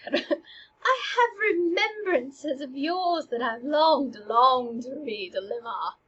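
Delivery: slow, lingering, wistful line; poignant breakup delivery. Shown as a demonstration. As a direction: say it like a tender farewell. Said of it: "I would have thought to".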